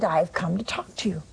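whispered low and quick, a sacred secret; hushed whisper. Acted. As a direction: breathe it out like a revelation. Dominic answers the visionary.

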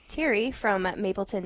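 usual speaking voice

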